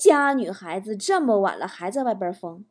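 composed, lightly voiced father; unruffled dad. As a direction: calmly begin scolding a daughter. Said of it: "老爸淡定地说".

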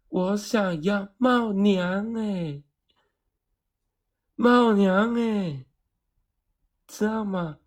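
very slow, high, drawn out insisting; slow, high insisting to the shop clerk; exasperated insisting. Retold or imitated. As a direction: spell it out to the clueless clerk.

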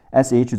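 sh said alone as an unvoiced hush; SH sound. Shown as a demonstration. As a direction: isolate sh as a pure consonant, no vowel. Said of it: "S H组合读sh".

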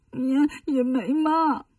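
stammering through mild tears; a touch of sobbing denial; tearful stammer. Acted. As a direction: choke a little on the words. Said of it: "那你哭啥呀".

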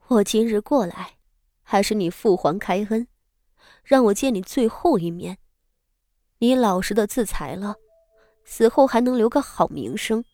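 cold voice. Acted. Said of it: "冷声道".

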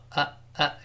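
呃 as a short neutral schwa, said twice; weakened vowel. Shown as a demonstration. Teacher showing vowel reduction, short schwa 呃. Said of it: "元音弱化就是原来这个哎变成呃呃".

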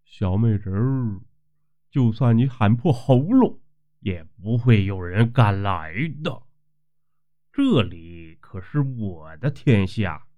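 leering and smug, slowing at the end; a lightly voiced leering landlord, smug and unhurried; lecherous. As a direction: gloat over her like you own the place. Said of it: "老地主色眯眯地说".

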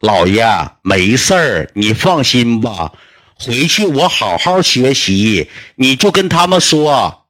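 very slow, drawn-out, emphatic words; slow and deliberate, each phrase spaced out; talking into a deaf ear. Retold or imitated. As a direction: spell it out slowly for a hard-of-hearing grandpa. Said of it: "一顿跟我姥爷搁耳朵跟前我念叨".

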